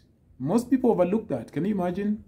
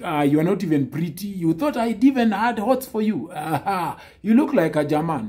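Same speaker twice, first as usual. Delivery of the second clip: mock insult; 2 semitones higher than usual. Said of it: "start insulting her, saying things like".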